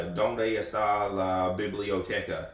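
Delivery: slow Alabama drawl on Spanish words; mock a clumsy American tourist; hammed-up deep Southern accent speaking Spanish. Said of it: "deep Southern accent of, of speaking".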